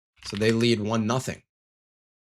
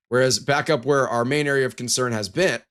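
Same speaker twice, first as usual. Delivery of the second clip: hiccup jolts the end. Real, not acted. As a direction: talk through hiccups. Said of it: "riding the struggle bus with these hiccups".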